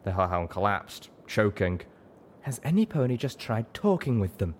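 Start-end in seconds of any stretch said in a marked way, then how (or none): 2.4-4.5 higher exasperated cry. A narrator's reading. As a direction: throw up your hands in frustration. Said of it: "Velvet cried out in exasperation".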